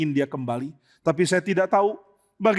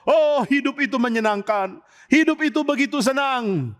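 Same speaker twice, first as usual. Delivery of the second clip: put-on higher, dreamy drunken sigh of pleasure; lightly played drunk prince; tipsy reveller; 7 semitones higher than usual. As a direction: savour life like a happy drunk. Drunk prince enjoying the wine.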